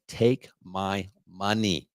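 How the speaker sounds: slow, drawn-out mock plea from a fed-up homeowner. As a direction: stretch each word like a tired buyer begging. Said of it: "frustrated homeowners right now that are saying".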